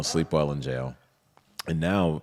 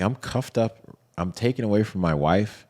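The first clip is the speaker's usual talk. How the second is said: raised, louder outraged protest; retelling the outrage at his arrest, pitched up and pushed; indignant disbelief; 6 semitones higher, 5 dB louder than usual. Retold or imitated. Arrested man protesting to agents, incredulous and loud. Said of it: "I'm like".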